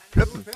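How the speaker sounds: squeaky high pop noise; bottle pop sound. Shown as a demonstration. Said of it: "Bierflaschen plöppen".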